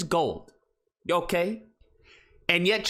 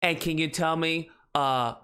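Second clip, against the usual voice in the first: put-on talking to a toddler; 5 semitones lower, slower than usual. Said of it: "She talks like, you know, like a three-year-old".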